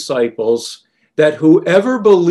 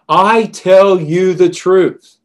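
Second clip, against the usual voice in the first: slow, louder, each word weighted; emphatic; 2 semitones higher, 5 dB louder, slower than usual. Retold or imitated. Jesus assuring his disciples, slow and emphatic. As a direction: press every word of I tell you the truth firmly. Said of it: "Jesus is emphatic in saying that statement".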